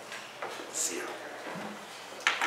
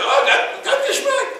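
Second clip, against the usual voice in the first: delighted outburst. Retold or imitated. Recalling his first success, delighted shout. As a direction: shout out the joy. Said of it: "I remember the first time".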